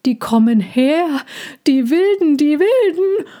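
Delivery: rising, high-pitched panicky warning; alarmed. Acted. Frightened horse warns of wild ones. (zunehmend panisch, immer höher)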